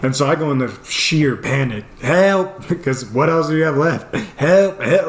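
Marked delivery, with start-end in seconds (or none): 2.0-2.7 mock scream for help. Man shut in his closet, mock-panicked cry. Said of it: "just start screaming". 4.4-5.1 mock scream for help. Man shut in his closet, mock-panicked cry. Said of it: "just start screaming".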